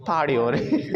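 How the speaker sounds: "पार्टी" as "paw-dee"; T as light D. Shown as a demonstration. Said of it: "टी में हल्का सा डी add हो जाता है".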